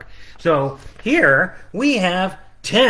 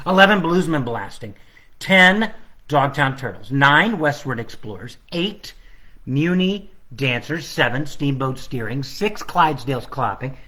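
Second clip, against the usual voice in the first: sing-song counting rhythm, each number leaned on; carol countdown. Acted. Illustrator reading his book's countdown in sing-song. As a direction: recite it like the carol.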